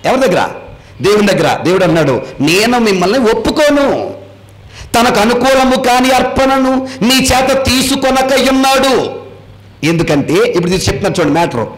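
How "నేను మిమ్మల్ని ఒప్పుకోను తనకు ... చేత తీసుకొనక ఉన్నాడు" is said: slow, solemn verse reading; scripture reading. Acted. Pastor reading God's words to the congregation, slow and solemn. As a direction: read the words slowly like holy writ.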